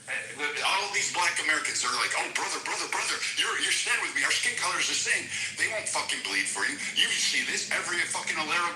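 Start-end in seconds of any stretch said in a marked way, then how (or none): 2.1-5.3 higher, sing-song mocking voice of a fake friend; mock pleading brother. Mocking shopkeepers who court black customers, higher sing-song voice. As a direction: ham up a fake buddy calling out brother.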